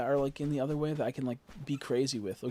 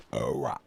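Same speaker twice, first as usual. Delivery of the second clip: fake burp; 14 semitones lower, 4 dB louder than usual. Shown as a demonstration. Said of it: "I was trying to do, like, a burp".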